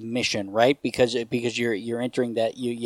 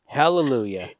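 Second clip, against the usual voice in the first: preachy evangelist. Pretend. Continues the mock preacher bit.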